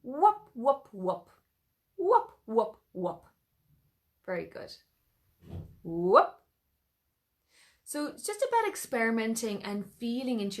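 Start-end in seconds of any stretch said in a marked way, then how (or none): 0.0-3.2 bright whoops that drop away; falling whoops. Shown as a demonstration. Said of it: "What about this one?". 5.8-6.3 loud rising whoop. Shown as a demonstration. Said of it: "demo whoop".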